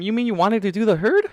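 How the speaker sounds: high, loud shocked shout. A narrator's reading. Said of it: "shouted even louder this time".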